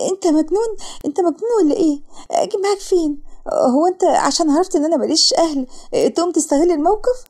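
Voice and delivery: high-pitched panicky protest; alarmed. Acted. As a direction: challenge him in startled alarm. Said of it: "وسارة بفزع". (بفزع واستنكار)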